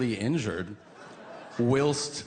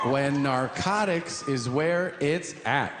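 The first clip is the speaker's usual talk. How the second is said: slow hammed shout; slower than usual. Comic telling the crowd about narcotics, slow hammed shout. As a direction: preach it to the crowd slowly.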